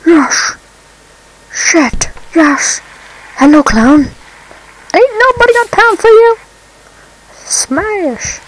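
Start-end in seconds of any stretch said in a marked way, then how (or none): 4.9-6.4 meme quote. Retold or imitated.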